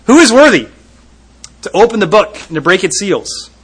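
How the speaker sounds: booming call to all of heaven; a loud question that carries into the distance; loud proclaiming question. Retold or imitated. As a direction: ring it out like a herald's loud cry. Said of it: "he loudly asks the question".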